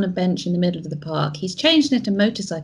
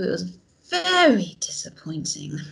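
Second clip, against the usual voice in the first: whispered. Acted. Player complains to Angel, whispering.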